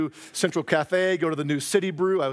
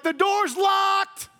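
high, slow, exaggerated pout; mock pouting wife; 14 semitones higher, much slower than usual. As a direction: whine it like a shut-out lover. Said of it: "she was like".

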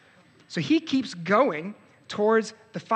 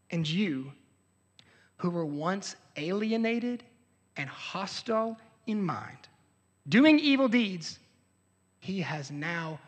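preacher reading scripture to the church. Acted. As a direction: read it as holy text, weighty. Reads Colossians aloud.

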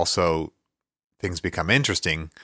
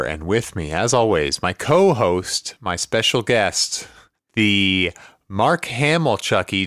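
slow, drawn-out showman welcome; podcast host intro; 2 semitones higher, 3 dB louder than usual. Acted. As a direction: announce the show like a host. Podcast show opening.

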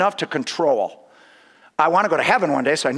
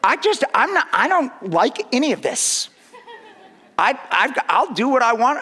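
laughing protest; 6 semitones higher than usual. Retold or imitated. Laughing mock protest at Jesus' words.

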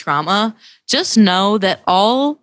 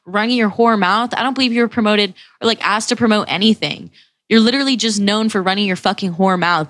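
retold verbal attack; 3 semitones higher than usual. Drunk guy ripping into her over TikTok, mildly aggressive. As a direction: imitate him tearing into you, without shouting. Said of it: "literally starts attacking me".

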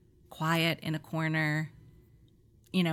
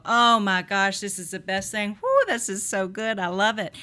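dessert delight; 2 semitones higher, 4 dB louder than usual. Retold or imitated. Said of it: "you go".

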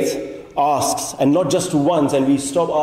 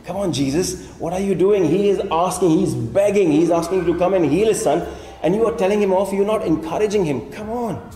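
higher-pitched, incredulous objection; exasperated protest; 4 semitones higher than usual. Acted. Reader challenging Jesus for telling off a begging father, exasperated. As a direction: plead the father's case in disbelief.

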